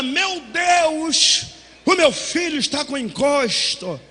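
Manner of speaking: mild, slowed alarmed mother; a lightly voiced mother panicking at the door. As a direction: gasp it like a frightened mother.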